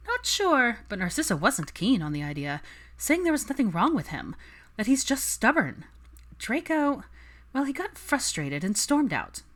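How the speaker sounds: high, lively gossip voice; gossipy friend. Acted. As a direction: spill the news eagerly. Daphne gossiping.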